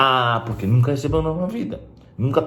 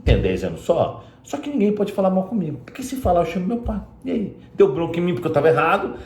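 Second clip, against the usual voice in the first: higher imitated voice of a bratty boy; teacher's pupil bragging, higher bratty kid voice; spoiled kid voice; 6 semitones higher than usual. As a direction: play the smug little boy who thinks he's untouchable. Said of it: "O moleque pensa assim".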